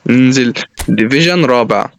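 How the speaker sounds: "ننزل ديفيجن رابع" stretched out slowly and low; low, drawn-out "ننزل ديفيجن رابع" with pauses between words; slow, resigned repeat. Real, not acted.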